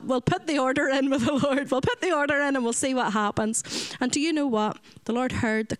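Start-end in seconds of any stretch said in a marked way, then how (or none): 0.0-3.6 imitating Joyce. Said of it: "as Joyce would say".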